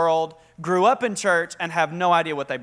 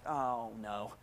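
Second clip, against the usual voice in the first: mock dread; 11 semitones lower, 16 dB quieter than usual. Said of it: "and I was like".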